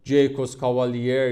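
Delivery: careful attempt at «جیکوس کاوالیر»; careful pronunciation. Real, not acted. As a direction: sound out the foreign name «جیکوس کاوالیر».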